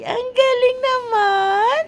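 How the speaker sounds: excited. Real, not acted. Praising baby again.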